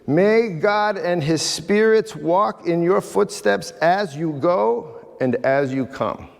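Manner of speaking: slow, earnest blessing; solemn blessing. Shown as a demonstration. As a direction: bless them slowly and sincerely. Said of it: "what it actually means is".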